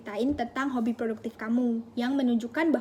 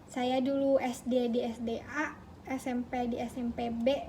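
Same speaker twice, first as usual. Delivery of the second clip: slow, softer recited self-introduction; long-winded candidate; 6 dB quieter than usual. Acted. Candidate over-explaining their background to an interviewer, slow and long-winded. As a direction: drag it out quietly, item by item. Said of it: "terlalu bertele-tele".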